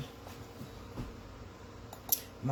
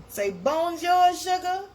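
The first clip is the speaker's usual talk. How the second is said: playful coaxing; 14 semitones higher, 7 dB louder, slower than usual. Acted. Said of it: "coaxing the sun to greet".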